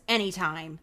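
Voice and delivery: a lightly voiced action star; Harrison Ford. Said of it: "That's my Harrison Ford impression".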